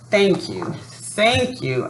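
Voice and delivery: mildly gleeful, bright thanks; a touch of glee, thanking twice. Acted. Boy thanking Yayo for the reward, mild glee. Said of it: "I cried gleefully".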